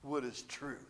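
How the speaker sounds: very soft, low sourpuss grumble; hushed, cynical Pilate aside; sour, dismissive mutter. Acted. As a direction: mutter it under your breath with a downturned mouth. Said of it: "You're turned into some sourpuss".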